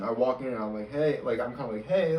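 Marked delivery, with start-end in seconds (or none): 0.9-1.2 bright, friendly hi; a chirpy hello to the teacher; peppy greeting. Retold or imitated. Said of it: "I'm nice, like, kinda peppy". 1.9-2.2 a cheery hi, pitched up and louder; walking into office hours all chirpy; peppy greeting. Retold or imitated. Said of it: "kinda peppy".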